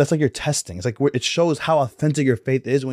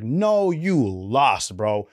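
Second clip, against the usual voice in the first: drawn-out mock rebuke; much slower than usual. Samuel rebukes Saul in retelling.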